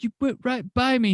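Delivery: high, loud imitation of an outraged complaint; retold indignant complaint. Stranded friend complaining to the driver, high indignant protest.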